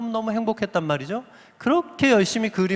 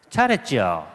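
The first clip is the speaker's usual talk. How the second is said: curt Busan verdict; 10 semitones lower, slower than usual. Retold or imitated. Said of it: "뭐라 그러는지 알아요?".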